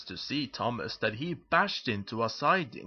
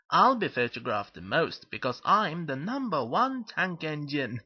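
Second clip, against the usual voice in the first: boastful; 3 semitones higher than usual. Acted. Thomas bragging about being photographed most, boastful. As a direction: lively boast with swooping pitch. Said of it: "boasted Thomas".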